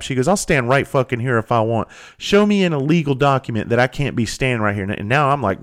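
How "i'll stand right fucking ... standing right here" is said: higher-pitched mock indignation; retold stubborn challenge; imitated defiance. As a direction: act out a woman refusing to budge. Retold woman defying the worker.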